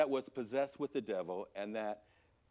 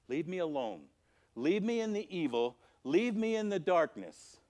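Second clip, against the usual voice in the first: rising plea, each repeat more insistent; acted pleading rejection; 5 semitones higher than usual. Townspeople begging Jesus to go, insistent rejection. Voicing people who bid Jesus leave.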